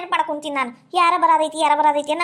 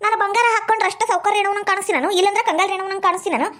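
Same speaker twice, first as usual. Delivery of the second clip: higher-pitched, offended throwing back of ಇಲ್ಲಂದ್ರ ಕಂಗಾಲ್ ರೇಣವ್ವನ್; raised-pitch indignant retort on ಕಂಗಾಲ್ ರೇಣವ್ವನ್ ಕಾಣಿಸ್ತೀನನು; indignant echo; 3 semitones higher than usual. Acted. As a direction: fling the insult back at her, offended. Echoes the insult indignantly.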